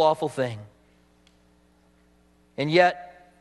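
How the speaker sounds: sincere prayer voice; closing prayer. Acted. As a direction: pray it over the congregation.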